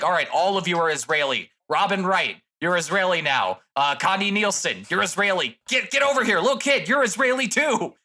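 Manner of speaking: hammed-up director ordering everyone around; mock director. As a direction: director shouting orders at the cast. Mocking director casting Israelis.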